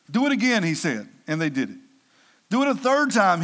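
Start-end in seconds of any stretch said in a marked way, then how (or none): 0.1-0.6 high-pitched, crisp command; mildly commanding, pitched up; ordering. A narrator's reading. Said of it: "he ordered them". 2.5-3.4 raised-pitch, emphatic command; narrated command with a lifted voice; ordering. A narrator's reading. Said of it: "he ordered them".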